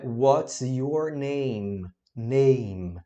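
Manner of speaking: "what's your name" said slowly and clearly; teacher modeling the phrase slowly. Shown as a demonstration. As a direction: spell it out slowly for learners. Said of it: "slow model".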